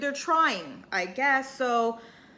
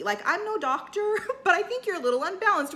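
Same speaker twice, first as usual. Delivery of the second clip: laughing jab; 7 semitones higher than usual. Retold or imitated. Crystal's cutting quip retold.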